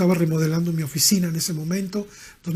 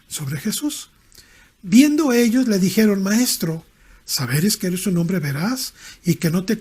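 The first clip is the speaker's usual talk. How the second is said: louder, driving scripture reading; forceful preaching; 4 dB louder than usual. Acted. Preacher reading Mark to the congregation, preaching at full force. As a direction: proclaim the verses to the congregation.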